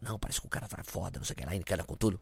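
hushed, fast aside; whispered warning to the man in line. Retold or imitated. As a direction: keep it down so the officer can't hear. Speaker whispers back in the queue.

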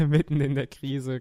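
laughing through the words. Real, not acted. Repeats the phrase, laughing.

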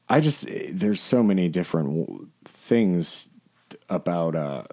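stumbling over words; halting, tripping on words; stuttering. Real, not acted. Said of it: "I'm just, like, stuttering now".

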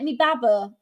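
brief Bristolian dialect demo; Bristolian accent. Shown as a demonstration. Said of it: "that is Brazilian accent".

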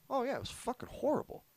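retold uncle. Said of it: "He was like".

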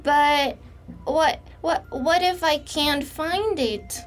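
high, halting frightened elf; frightened elf asks the fiddler; frightened stammer. Acted. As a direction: stumble over the words in fear. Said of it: "cried the frightened elf".

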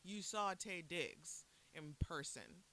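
slow, deliberate rising question; mock disbelief. Asking sister to confirm the sighting, mock incredulous. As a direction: spell out the disbelief word by word.

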